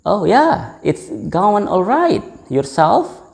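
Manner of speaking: high, easygoing "Oh yeah, it's going alright"; casual reply. Shown as a demonstration. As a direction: answer breezily, voice lifted. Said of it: "Or we can say". (jawaban santai dengan nada tinggi)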